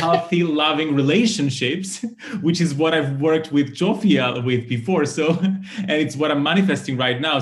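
giggling with delight at the coincidence; laughing. Real, not acted. Host reading her card aloud to her guest, laughing.

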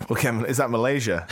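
light Australian twang, laughing through it; a quick mock Australian phone greeting; Australian accent. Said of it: "do it in an Australian accent".

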